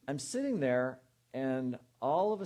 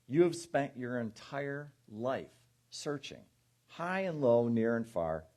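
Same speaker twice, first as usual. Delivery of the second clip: poem reading. Acted. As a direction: read it like a letter from your soul. Reads journal piece as soul's voice.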